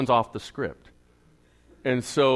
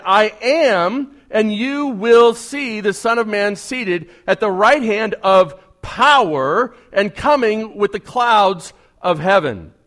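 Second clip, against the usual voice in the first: solemn Jesus; 7 semitones higher, 8 dB louder, slower than usual. Acted. Reading Jesus' reply.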